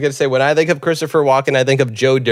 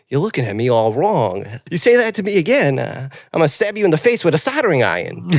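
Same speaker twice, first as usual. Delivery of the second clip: lightly done celebrity impression with swooping pitch; a hint of halting menace, talking to the mirror; Christopher Walken. Retelling the janitor's mirror scene, lightly voiced Walken. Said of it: "it cuts to Christopher Walken".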